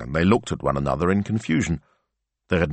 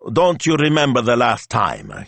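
high, forceful demand; raised-voice indignant question; 7 semitones higher, 4 dB louder than usual. A narrator's reading. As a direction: demand an answer, agitated. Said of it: "he demanded".

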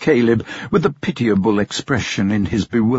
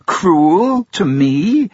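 incredulous; 7 semitones higher, 4 dB louder, much slower than usual. Acted. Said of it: "with a smile of incredulity".

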